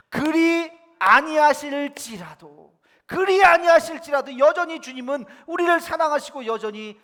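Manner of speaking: high, very loud preaching proclamation; 담대한 선포. Acted. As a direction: cry out the confession with unshaken conviction. Proclaims the friends' confession. (높고 큰 소리로 외치는 신앙 고백)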